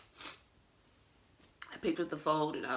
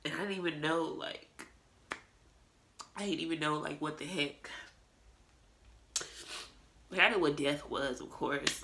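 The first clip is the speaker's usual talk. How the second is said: tearful; 4 dB louder than usual. Real, not acted. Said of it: "I'm sorry I'm crying so much".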